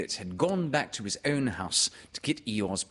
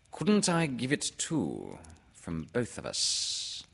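Owl; 4 semitones higher, slower than usual. Acted. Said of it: "said Owl".

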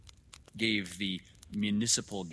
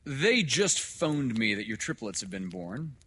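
loud, higher, hearty doctor; hearty announcement; 5 semitones higher, 9 dB louder than usual. Acted. Doctor telling father of his triplets, loudly hearty. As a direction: announce the good news loud and high.

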